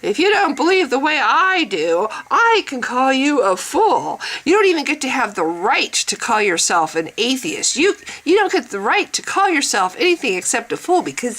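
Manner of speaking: mock self-righteous lecturing; preachy parody with stressed words; arrogant believer. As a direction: lightly imitate a smug, know-it-all zealot. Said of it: "this other guy who's like".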